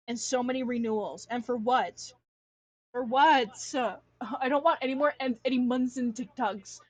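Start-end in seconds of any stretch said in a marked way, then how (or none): 2.9-3.5 louder, exasperated demand; fed-up emphatic repeat; louder indignant repeat. Real, not acted. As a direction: hit it harder the second time.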